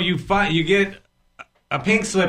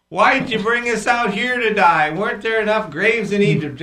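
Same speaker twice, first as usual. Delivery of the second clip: complaining Israelites; 8 semitones higher, 5 dB louder than usual. Retold or imitated. Israelites complain at Red Sea.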